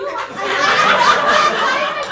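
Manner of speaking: giddy glee. Acted. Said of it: "struck by a very powerful emotion".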